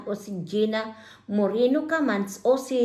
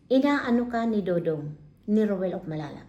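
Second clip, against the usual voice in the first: normal talking voice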